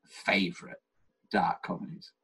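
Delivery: whispering. Real, not acted. Whispered aside.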